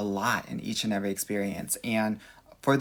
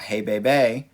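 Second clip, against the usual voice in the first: pimp voice; 6 dB louder, slower than usual. Pretend. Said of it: "with a pimp walk".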